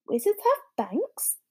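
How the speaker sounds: put-on wide-eyed boyish disbelief; astonished question; amazed. A narrator's reading. Harry amazed.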